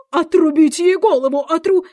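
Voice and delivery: loud, high furious command; angry shout. A narrator's reading. Furious Queen orders Alice's execution, shouting angrily. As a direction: shout it high, breaking off mid-word. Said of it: "крикнула".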